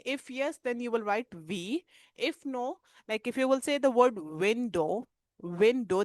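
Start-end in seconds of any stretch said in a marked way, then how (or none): 4.4-6.0 window with a rounded, unbuzzed W; W without vibration. Shown as a demonstration. Teacher testing for vibration, clear W in window. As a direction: say window slowly, no lip buzz. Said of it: "there is no vibration".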